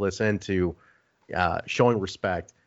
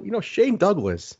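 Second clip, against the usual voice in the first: pitched way up, needling a friend; hammed-up teasing, higher; ribbing high voice; 6 semitones higher, slower than usual. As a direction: rib him in a high mock voice. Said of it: "I go".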